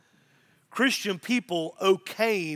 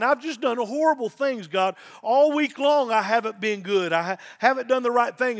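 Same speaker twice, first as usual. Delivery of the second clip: raised, pressing mock plea of a crying penitent; imitated tearful confession; 4 semitones higher, 5 dB louder than usual. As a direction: confess as if crying at the altar, voice lifted. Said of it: "They'd be crying".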